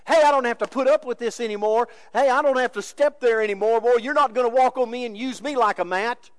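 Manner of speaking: fed-up pushback, preached out loud; retaliating protest. Acted. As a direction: act out someone refusing to be walked on. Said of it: "reacting naturally and saying".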